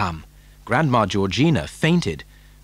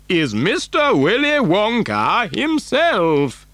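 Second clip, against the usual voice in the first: put-on slow, higher old man's voice; announcing Grandpa Joe; 9 semitones higher, slower than usual. Grandfather introducing the famous factory owner, grand and slow.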